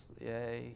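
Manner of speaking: unexcited, flat, low, level monotone. Showing how people respond when not excited: monotone 'yay'. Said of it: "it's just going to be like kind of a monotone".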